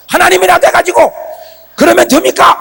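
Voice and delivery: high, loud retold protest; defiant challenge. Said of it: "막 이랬다니까". (대들듯 높은 소리로 따짐)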